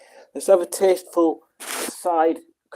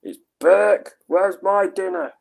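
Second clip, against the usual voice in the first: put-on high-pitched botched character accent; 8 semitones higher than usual. Streamer correcting the Trapdoor quote for Rob, high put-on accent. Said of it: "But not in that accent, 'cause that didn't sound right either".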